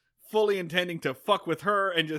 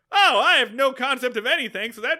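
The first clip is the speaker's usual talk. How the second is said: mock dim Gomer; 8 semitones higher, 8 dB louder than usual. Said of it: "he goes".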